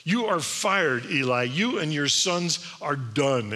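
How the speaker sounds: slow, stern verdict; stern pronouncement. Acted. Samuel delivering Eli's pink slip, stern and deliberate. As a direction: deliver it as a weighty, drawn-out sentence. Boy delivers God's dismissal to Eli.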